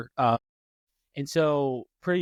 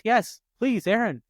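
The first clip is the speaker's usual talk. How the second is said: high, slow mock prodding; wife gleefully pressing her husband to answer; gleeful wife teasing; 6 semitones higher, 4 dB louder, slower than usual. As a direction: relish putting him on the spot. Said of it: "she goes".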